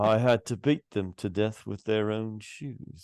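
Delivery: lightly voiced film character; Wayne's World impression. Podcaster quoting the guy in Wayne's World, light impression. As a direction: imitate the movie's storyteller. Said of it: "line from Wayne's World where the guy's like".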